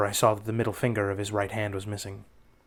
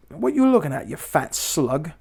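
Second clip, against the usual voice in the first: mock taunt; 3 semitones higher than usual. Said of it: "up and says".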